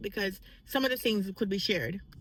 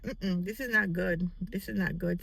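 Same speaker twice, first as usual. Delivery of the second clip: low disgusted verdict; 4 semitones lower than usual. Retold or imitated. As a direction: let it sink down: not good. Tasting bad creme brulee.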